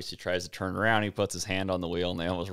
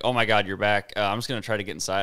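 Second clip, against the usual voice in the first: louder start, then hurried excuse; retold freak-out; 5 dB louder, faster than usual. Teacher spotting Pat back at school, mildly acted freak-out. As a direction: imitate a flustered teacher edging away fast. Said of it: "this teacher's freaking out".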